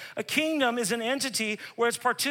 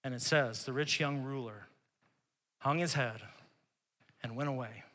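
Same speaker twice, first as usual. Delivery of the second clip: hushed, intimate preaching; hushed storytelling; 8 semitones lower, 9 dB quieter than usual. Acted. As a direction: draw them in quietly.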